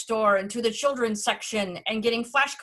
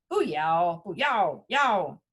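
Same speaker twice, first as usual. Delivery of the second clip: repetitive babble with exaggerated falling tones; babbling idiot; 4 semitones lower, slower than usual. Newcomer practising on the way to the door, babbling. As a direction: babble the new phrase over and over. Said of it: "sounded like a babbling idiot".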